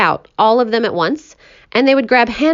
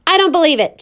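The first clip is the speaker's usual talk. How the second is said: higher, raised voice of disbelief; shouted; 8 semitones higher, 3 dB louder, faster than usual. Acted. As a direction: shout it out, scoffing. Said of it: "shouted the centipede".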